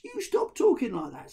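stern command. Acted. Ahmed ordering the ghoul to stop, loud. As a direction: tell him off sharply.

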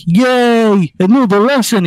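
put-on high, loud childlike "yay" delivery; high-pitched gleeful outburst; mock excited cheer. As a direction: cheer it eagerly as an excited cartoon character. Excited character in a retold story.

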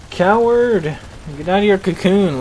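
high-pitched taunting shout; taunting call. Real, not acted. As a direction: call out the hiding enemy. Taunts hiding game boss.

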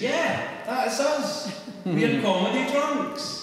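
high, loud, gleeful parody of self-recognition; hammed-up proud acceptance; mock eager agreement. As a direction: pipe up high, laughing at the caricature. Voices Scots accepting the caricature.

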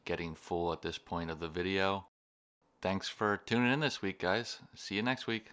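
talking while chewing; mouth full. Real, not acted. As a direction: between bites of calzone. Seen 2: Plaid-shirt man bites and chews calzone throughout; mouth busy.

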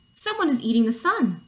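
acted urgent hen; alarmed cry. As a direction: announce the news in storybook alarm. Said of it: "cried Hen".

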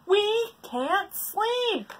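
very slow, high whine; whiny complaint. Acted. Animals to the bird, slow whine. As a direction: drag it out tiredly.

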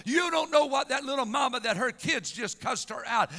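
forceful, driving church sermon delivery; impassioned preaching. Real, not acted. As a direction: preach it with mounting urgency to the congregation.

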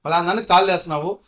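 mock loud telling-off; retold loud scolding. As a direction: bark it at him like an angry girlfriend. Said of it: "గట్టిగా మాట్లాడింది".

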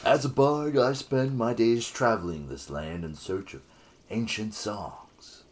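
smooth flirty bard voice; lightly voiced seductive bard; Cass sexy bard voice. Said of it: "can you give him a sexy bard voice?".

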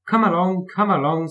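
high, lilting singsong; singsong call. A narrator's reading. Thomas leading his coaches away, singsong. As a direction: sing it out to urge them along. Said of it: "sang Thomas".

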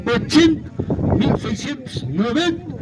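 rhythmic auction chant calling bids; spanish auctioneer. Acted. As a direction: call out each rising bid in turn.

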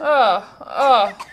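mock open-mouthed coughing sob; imitated cough cry. Reactor mimicking the crying kid, mock cough cry. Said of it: "The open mouth cough cry".

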